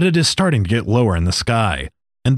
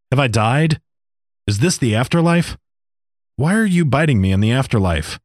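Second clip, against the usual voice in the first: a higher, lightly voiced man, confused and alarmed; a man waking up sure he must be dead; bewildered man; 4 semitones higher than usual. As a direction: ask it like he can't believe he's alive. Thirsty man wakes confused.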